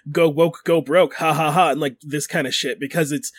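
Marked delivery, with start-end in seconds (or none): 0.1-1.7 air quotes. Retold or imitated. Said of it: "critics, I'm doing air quotes".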